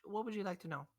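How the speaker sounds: put-on high, loud grumpy Southern old man; cranky old shopkeeper. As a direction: bark at the adventurers like a fed-up old codger. Shopkeeper questions the customer.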